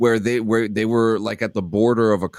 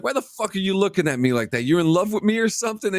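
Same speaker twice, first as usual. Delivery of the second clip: mock retort; 6 semitones higher, faster than usual. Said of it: "the trainer's like".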